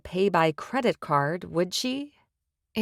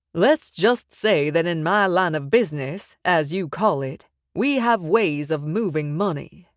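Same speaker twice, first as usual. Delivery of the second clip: louder, smug loan shark laying down terms; menacing mob boss; 4 dB louder than usual. Acted. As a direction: press the threat with calm confidence. Sykes hints at laundering.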